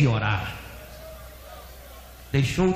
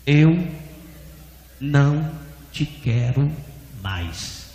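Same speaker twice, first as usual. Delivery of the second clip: slow, word-by-word divine pronouncement; voz de Deus; 4 semitones lower, slower than usual. Retold or imitated. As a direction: let each word fall separately, sinking at the end. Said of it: "ele ouviu uma voz". (voz de Deus, pausada e solene)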